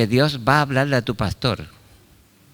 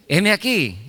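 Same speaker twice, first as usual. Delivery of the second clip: put-on eager young Samuel; 8 semitones higher, slower than usual. Samuel answering again.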